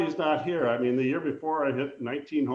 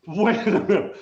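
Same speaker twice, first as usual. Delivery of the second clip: retold surprise; 6 semitones higher, 6 dB louder than usual. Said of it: "And I said".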